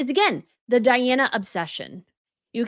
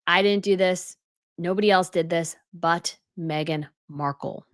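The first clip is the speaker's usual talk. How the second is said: mock denial; 6 semitones lower than usual. Mock denial, voiced quote.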